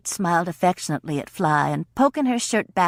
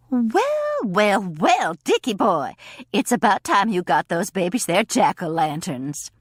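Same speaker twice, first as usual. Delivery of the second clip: teasing greeting. Acted. Kate greets Dick teasingly.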